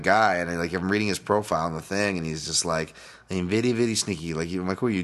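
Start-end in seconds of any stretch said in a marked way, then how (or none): 3.3-4.3 sly foreign-butler accent, lightly put on; mock accented boast, played for fun; John Turturro in Mister Deeds. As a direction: imitate a sneaky movie character. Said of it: "John Turturro from fucking Mister Deeds".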